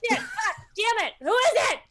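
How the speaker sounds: loud, high panicked cursing; startled shout. Acted. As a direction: yell as you stumble blind. Crashes into ally in dark.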